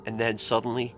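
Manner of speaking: hushed, tense ghost-story narration; nervous night vlog whisper. A narrator's reading. Tells a horror story quietly.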